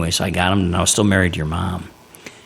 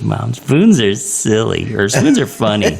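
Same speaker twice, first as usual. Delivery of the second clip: slow, dreamy spoons line; slow drugged quote; 4 semitones higher, 5 dB louder, slower than usual. Retold or imitated. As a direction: drawl it like a groggy patient. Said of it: "And she goes".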